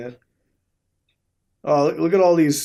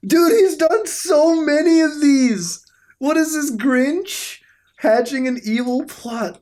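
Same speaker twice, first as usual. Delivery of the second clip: laughing; 11 semitones higher, 3 dB louder than usual. Real, not acted. Vlogger giggling through comments on the photos, high and laughing. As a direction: talk while still laughing.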